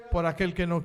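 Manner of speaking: voice of the Lord. Retold or imitated. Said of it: "Y el Señor le dice".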